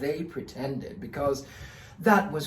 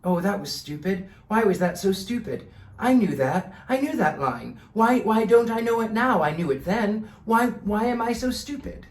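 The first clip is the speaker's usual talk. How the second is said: self-scolding thoughts; 5 semitones higher, 3 dB louder than usual. Retold or imitated. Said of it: "I was instead thinking".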